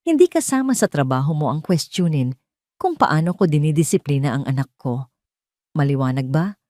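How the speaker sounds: each word measured and pressed; understated icy, deliberate warning; slow and emphatic. A narrator's reading. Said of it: "ang bawat salita ay mabagal at may diin".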